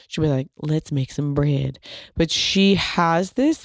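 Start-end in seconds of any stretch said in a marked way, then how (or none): 0.6-1.8 lightly imitated Southern drawl, slow; a hint of a thick Southern accent, drawn out. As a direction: imitate a sultry Southern home cook, lightly. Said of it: "thick Southern accent".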